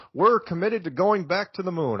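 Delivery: lightly voiced Obama, measured and presidential; a hint of Obama's cadence; mild presidential promise; Obama impersonation. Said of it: "I was kind of doing an Obama impersonation".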